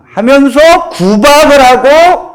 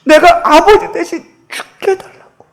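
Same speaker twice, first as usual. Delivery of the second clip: mute daughter's attempt; 7 semitones higher than usual. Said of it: "근데 그게 말을 못하잖아요".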